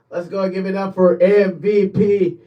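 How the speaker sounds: hyped-up announcer shout. Pretend. Host introducing the softball team's MVP, building to a hyped shout. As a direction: introduce the star player like an arena announcer, rising to a yell.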